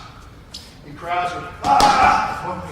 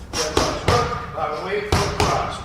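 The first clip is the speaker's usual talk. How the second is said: boxing coach calling combos; 5 dB louder than usual. Shown as a demonstration. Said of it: "One more time".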